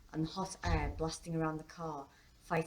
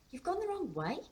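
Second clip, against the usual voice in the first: put-on much higher, uneasy girl's voice; tense daughter; 13 semitones higher than usual. A narrator's reading. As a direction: point it out in a high, tense voice. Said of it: "tension riddled her voice".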